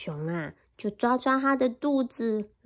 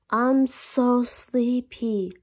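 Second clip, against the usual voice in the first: slow, drawn-out sleepy bear; much slower than usual. Acted. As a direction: yawn through it. Bear yawning.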